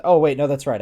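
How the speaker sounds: ordinary delivery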